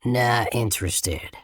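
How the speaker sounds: slow, curt grunted refusal; a hint of a surly man grunting; gruff grunt. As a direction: brush him off with a lightly voiced grunt. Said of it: "Randall grunts".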